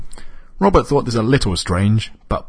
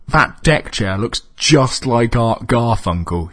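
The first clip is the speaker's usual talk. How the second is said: slow, higher puzzled remark; confused; 4 semitones higher, slower than usual. Acted. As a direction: say it slowly, bewildered. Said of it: "he said, confused".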